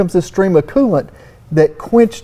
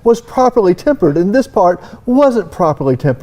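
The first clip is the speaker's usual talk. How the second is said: mock posh; 2 semitones higher than usual. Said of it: "my pinky up".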